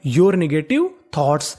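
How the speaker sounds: very slow, each word spaced out; slow dictation. Shown as a demonstration. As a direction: read it out slowly for the students. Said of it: "तो पूरा sentence क्या बना?". (बहुत धीरे, शब्द-शब्द अलग)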